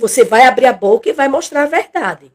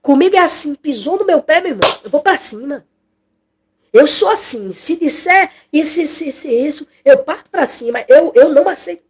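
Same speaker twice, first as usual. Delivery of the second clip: higher, imitating a stubborn hothead; mock the person who won't change, pitched up; imitating someone who says they'll fight back; defiant stubborn quote; 5 semitones higher than usual. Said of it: "Aí tem gente que diz assim".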